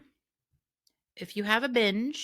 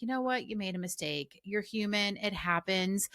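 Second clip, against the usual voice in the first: softer, gentle reassurance to herself; kind self-talk; 4 dB quieter than usual. Retold or imitated. Coach retelling how she gently forgave herself for the mistake, in soft reassurance. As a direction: let yourself off the hook kindly. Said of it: "I changed my tone with myself".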